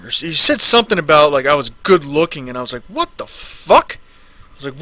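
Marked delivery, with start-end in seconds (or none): 2.9-4.0 high, slow, put-on squeal of disbelief; mock outraged squeak; shocked disbelief. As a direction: act stunned at the compliment. Retells his reaction to a stranger.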